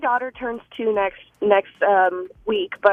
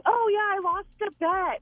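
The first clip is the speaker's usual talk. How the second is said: retold cover-up yell; 9 semitones higher than usual. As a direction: put on a high voice to cover disappointment. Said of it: "tried to mask it by yelling".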